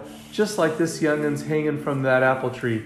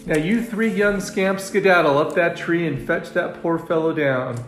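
brisk raised scolding command; ordering; 5 semitones higher than usual. Acted. Farmer's wife sends gang up tree, ordering. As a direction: send them off firmly. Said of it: "ordered Missus Ben".

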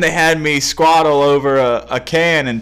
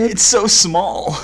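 slow incredulous protest; 6 semitones higher, much slower than usual. Real, not acted. Incredulous at tiny mortar.

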